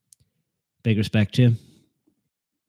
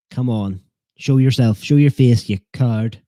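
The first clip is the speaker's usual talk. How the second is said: mock taunt; 3 semitones higher, 6 dB louder than usual. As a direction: goad the lurker in jest. Taunting silent viewer.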